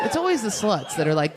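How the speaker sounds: ordinary talk, nothing marked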